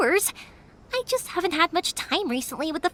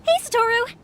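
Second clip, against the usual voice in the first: calling out; 7 semitones higher than usual. Acted. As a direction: hail a friend from afar. Greeting Satoru from a distance.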